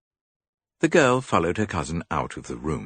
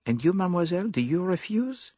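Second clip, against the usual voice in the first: higher, fussy little detective; higher dapper detective; Poirot voice. A narrator's reading. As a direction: play the clever Belgian.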